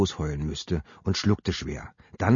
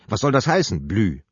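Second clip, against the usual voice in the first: misstrauisch; 3 semitones higher, 3 dB louder than usual. Acted. Sabine fragt misstrauisch.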